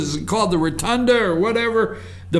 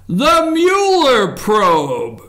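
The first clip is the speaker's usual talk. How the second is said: game show reveal; 4 dB louder, much slower than usual. Pretend.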